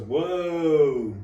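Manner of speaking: long, high, loud mock astonishment; retold amazed reaction. Friend stunned that he asked, drawn-out amazement.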